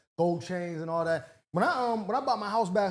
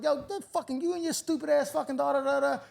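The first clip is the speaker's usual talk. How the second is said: higher-pitched mock tirade; retold angry rant; 7 semitones higher than usual. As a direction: replay the insult, tailing into filler. Retelling his insult to neighbor.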